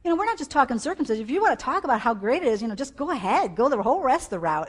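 fast, high, loud angry tirade; Paul. Acted. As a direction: fire it off like a fed-up rebuke. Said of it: "so angry that he was like".

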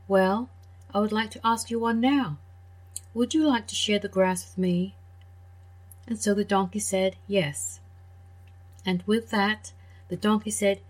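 put-on gentle storyteller voice for kids; children's story reading. A narrator's reading. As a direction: read it like a bedtime tale. Reads fairy tale to children.

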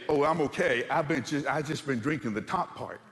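calmly acted reassurance, unbothered; mock calm. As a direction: play it calm, as if all is fine. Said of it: "You do not calmly say".

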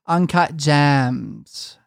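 put-on slow, drawn-out Valley girl. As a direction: stretch Uncut Gems out like a Valley girl. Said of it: "she pronounced Uncut Gems like this".

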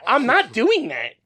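high, slow and loud; loud protest. Real, not acted. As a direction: protest loudly and slowly. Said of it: "you're so loud".

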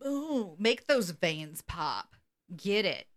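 low, drawn-out mock ogling; playful catcall. Host ogling the man admiring himself, playful catcall. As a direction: egg on the poser, slow and low.

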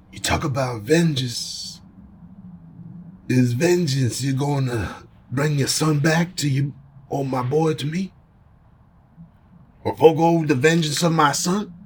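put-on measured, lightly Italian-accented delivery; weighty monologue with a hint of Italian. Godfather speaking of vengeance, Italian accent. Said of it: "but in an Italian voice".

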